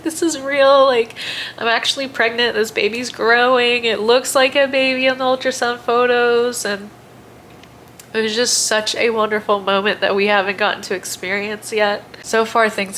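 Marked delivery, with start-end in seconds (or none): 0.0-6.6 retold tearful joy. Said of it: "I start crying again".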